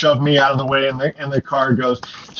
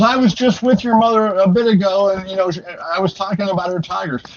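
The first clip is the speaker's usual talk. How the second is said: higher-pitched insistent boxer voice, lightly done; mildly voiced boxer, earnest and puzzled; a light imitation of a high-voiced boxer, higher; Mike Tyson; 6 semitones higher than usual. Tyson insists about the tigers.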